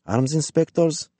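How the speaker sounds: high, rising disbelief; incredulous echo. A narrator's reading. Woman guffaws at the inspectors' claim, incredulous question.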